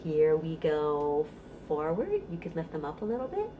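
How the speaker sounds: sing-song rhyme, rising on up and falling to a whisper on down; playful action rhyme. Shown as a demonstration. Librarian demonstrating a baby bounce rhyme, sing-song. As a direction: act out the directions for a baby. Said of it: "Okay, let's try it".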